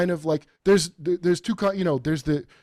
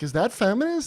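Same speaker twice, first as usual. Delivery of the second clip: mock Jewish yenta; 8 semitones higher than usual. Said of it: "Jewish Yenta in her thirties".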